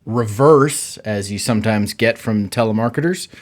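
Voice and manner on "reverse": reverse said in place of the surname; wrong pronunciation. Shown as a demonstration. Host quoting telemarketers' mistake, reverse pronounced deliberately. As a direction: say reverse slowly, as a botched surname. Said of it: "It's not reverse".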